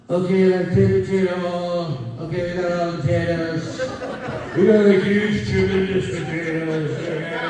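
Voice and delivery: fast, boastful Trump voice; Trump impression. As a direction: brag like a rally speech. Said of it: "all of the U S presidents".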